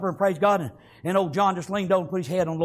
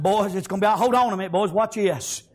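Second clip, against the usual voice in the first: unruffled John. Acted. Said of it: "he's taking it all in".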